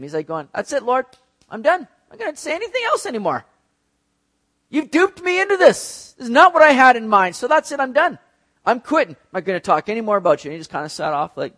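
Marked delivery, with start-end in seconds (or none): 0.5-10.5 high, loud, exasperated I quit; a preacher hamming up a fed-up prophet; fed-up outburst. Retold or imitated. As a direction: throw up your hands at God, much higher and louder. Jeremiah voiced quitting in frustration.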